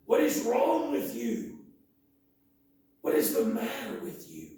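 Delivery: slow, loud scolding of the idle army; a preacher's exasperated challenge; indignant rebuke. Acted. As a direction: demand it like you're fed up with them.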